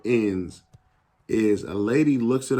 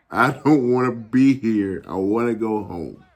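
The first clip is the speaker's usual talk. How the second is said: retold tearful plea; 4 dB louder than usual. Crying player telling assistant coach he wants home, retold tearful plea. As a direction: imitate a homesick plea, only mildly tearful. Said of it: "That's how I sounded".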